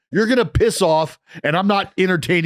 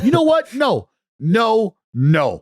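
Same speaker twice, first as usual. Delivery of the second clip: mock defiant outburst; 5 semitones higher, slower than usual. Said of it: "is like".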